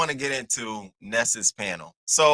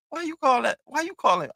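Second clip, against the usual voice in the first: mock high caller voice; 13 semitones higher than usual. Mocking the caller, high pitched.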